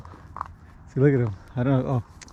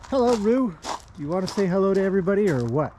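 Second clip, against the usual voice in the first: higher, fast sing-song greeting to a horse; pet talk; 6 semitones higher, faster than usual. Real, not acted. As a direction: coo up high at the horse.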